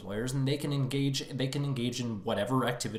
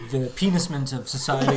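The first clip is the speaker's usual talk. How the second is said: laughing. Real, not acted. Joking pun, laughing.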